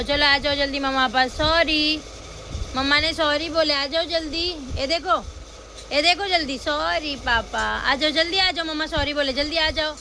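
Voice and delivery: coaxing apology. Real, not acted. Coaxing sulking son back.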